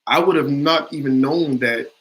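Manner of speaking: mildly amazed, slow and drawn out; retold shock. Audience member to the actor about his accent, mildly shocked. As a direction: slowly voice a touch of disbelief. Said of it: "she's looking at me shocked".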